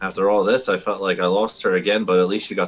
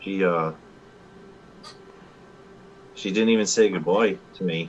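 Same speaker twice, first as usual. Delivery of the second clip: whispering in a put-on voice. Voicing a character telling a companion about a lost friend: whispering. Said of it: "I kinda whisper to him and I say".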